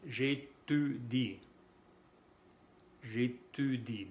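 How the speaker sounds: J'ÉTUDIE slowly, with rounded front u; correct French u. Shown as a demonstration. Teacher modelling j'étudie, slow fronted u. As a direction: say J'ÉTUDIE carefully, tongue forward on u. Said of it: "Cómo van a pronunciar aquí".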